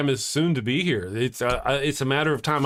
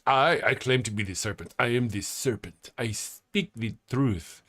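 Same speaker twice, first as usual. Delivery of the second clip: serpent voice; 3 semitones lower, 3 dB quieter than usual. Acted. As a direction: intone it like the serpent. Playing the serpent.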